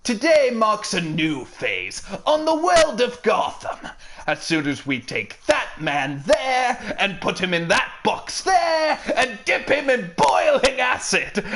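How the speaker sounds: theatrical villain speech building to a laughing shout; gleeful cartoon villain, rising into a gloat; Mark Hamill's Joker. Shown as a demonstration. Trying a Mark Hamill Joker line, gleeful villain proclamation. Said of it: "I can try Mark Hamill's".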